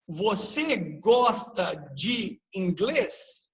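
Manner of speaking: slow demo question, tune changed on "inglês"; slow teacher's example of a spoken question; questioning intonation. Shown as a demonstration. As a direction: say it slowly with question intonation, ending on "inglês" as an asked word. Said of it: "Mudei a entonação".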